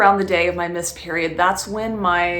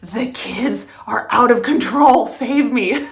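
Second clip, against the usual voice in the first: breathy whisper, half laughing; whispered plea; 4 semitones higher, 5 dB louder than usual. Retold or imitated. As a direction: whisper it like a desperate secret. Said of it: "he goes".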